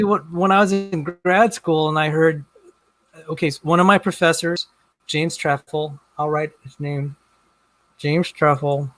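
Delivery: talking with something in mouth; words round a mouthful; mouth full. Real, not acted. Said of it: "I shouldn't have something in my mouth".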